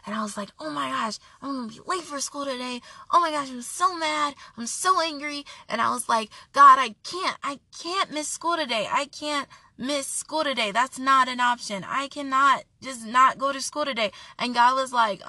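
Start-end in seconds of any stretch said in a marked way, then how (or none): 0.6-5.5 mild re-enacted exasperation, slightly raised pitch; retold angry fretting. Woke up late for school, retold anger. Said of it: "and I got so angry". 6.5-14.1 re-enacted exasperation, pitch slightly raised; retold angry protest. Complaining to God about missing school, retold anger. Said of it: "and I got so angry".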